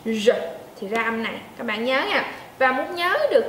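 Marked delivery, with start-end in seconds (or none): 0.0-0.3 R popped out, tongue curled. Shown as a demonstration. Teacher repeats the R for students to copy. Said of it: "bật R nha".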